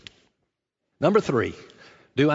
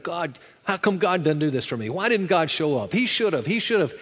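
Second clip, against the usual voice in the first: higher, louder mock grievance; indignant complaint; 4 semitones higher, 4 dB louder than usual. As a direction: imitate someone complaining indignantly at God. Voices an indignant complaint against God.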